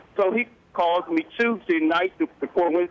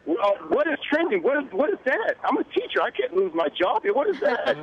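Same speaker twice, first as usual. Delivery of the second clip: panicked retelling; 7 semitones higher than usual. Retold or imitated. Retold panic at daughter's news.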